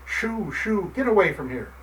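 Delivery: put-on old fisherman chasing off the kitten; angry. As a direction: shoo the kitten away angrily. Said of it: "angrily said the old fisherman".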